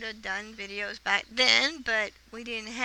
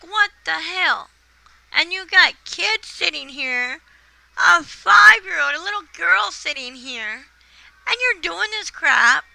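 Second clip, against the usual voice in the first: loud, higher, slow indignant scolding; angry outburst; 5 semitones higher, 6 dB louder, slower than usual. Retold or imitated. Wife scolding husband in front of the kids, outraged yell. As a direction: tell him off, outraged and slow.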